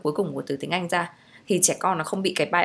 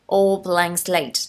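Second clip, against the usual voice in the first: 1 very slow stressed repeat; 4 dB louder, much slower than usual. Shown as a demonstration. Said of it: "teacher repeats key phrase slower".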